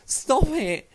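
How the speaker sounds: high-pitched mock telling-off, laughing midway; put-on exasperated voice, breaking into a laugh; JBL imitation. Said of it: "J B L got up and was like".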